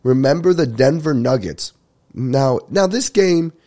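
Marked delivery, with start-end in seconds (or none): 0.0-1.7 mild mock yell; half-shouted retold announcement. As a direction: call it out randomly, imitating a DJ. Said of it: "he randomly yelled".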